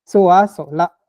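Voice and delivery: "Soa Sola", loud, the a falling; "Soa Sola" as finished, with a falling a; accomplished tone. Shown as a demonstration. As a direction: close "Soa" down firmly. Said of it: "c'est accompli".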